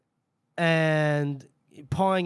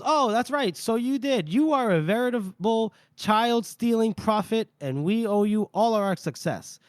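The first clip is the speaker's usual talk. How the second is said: higher, sarcastic flattery; mock praise; 5 semitones higher than usual. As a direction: sneer while pretending to honour him. Casca mocks Cantless sarcastically.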